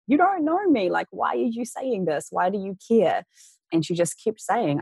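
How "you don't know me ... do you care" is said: much higher, bewildered pushback; incredulous retort. Retold or imitated. To the crying officer, a high bewildered protest. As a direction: push back as if none of it makes sense.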